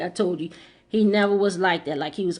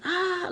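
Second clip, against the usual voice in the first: retold scream; 10 semitones higher, 5 dB quieter than usual. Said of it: "scream real loud".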